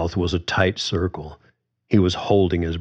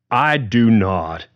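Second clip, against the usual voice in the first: slow, firm denial; emphatic; 3 semitones higher, 3 dB louder, slower than usual. A narrator's reading. George denying Carly's charge, slow and firm. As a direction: plant each word, lightly voiced George. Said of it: "George was emphatic".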